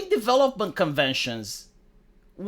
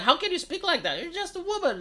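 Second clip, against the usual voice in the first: mock outraged leftist; 11 semitones higher, 4 dB quieter than usual. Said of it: "They're like".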